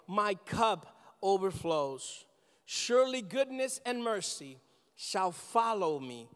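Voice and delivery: slow, weighty reading of the psalm, each line given space; solemn scripture reading. Acted. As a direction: lay each verse down slowly and reverently.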